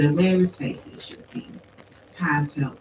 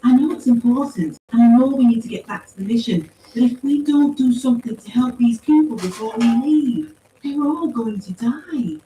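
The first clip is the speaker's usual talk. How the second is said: high, louder, insistent voice; urgent pleader; 8 semitones higher, 7 dB louder than usual. A narrator's reading. Paz begs to help people before leaving, urgent plea. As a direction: plead hard, slowing on the last words.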